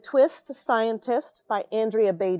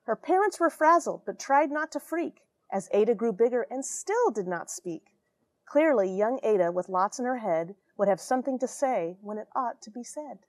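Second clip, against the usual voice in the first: lively rhyming picture-book read; storybook narration with a sing-song lilt; reading to children. A narrator's reading. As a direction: read it aloud to a class of kids, bouncing the rhyme. Reads picture book aloud.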